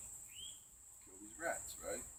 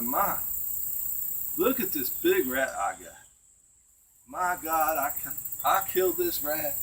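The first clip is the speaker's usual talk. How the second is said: mock screaming; 4 semitones higher, 3 dB louder than usual. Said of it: "he's screaming this".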